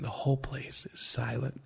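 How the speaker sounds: soft breathy whisper. Retold or imitated. Telling how the room went silent, a whisper. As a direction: whisper to set the hush. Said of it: "he's almost whispering".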